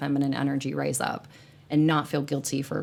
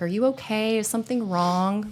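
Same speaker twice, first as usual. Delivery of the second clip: higher-pitched, imitated worried check-in; concerned onlooker; 5 semitones higher than usual. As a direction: mimic someone fussing over a person in tears. Voicing people fussing over someone crying.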